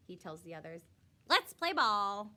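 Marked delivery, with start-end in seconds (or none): 1.3-2.3 eager call. Acted. Boy rallies the teams.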